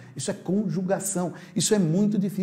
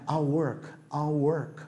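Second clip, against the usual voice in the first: I'll work run together, the L barely touched; quick natural I'll work; 5 dB quieter, slower than usual. Shown as a demonstration. Teacher showing the fluent everyday contraction, quick and casual. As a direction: toss it off fast like in real talk. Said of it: "você vai falando assim, mais prático".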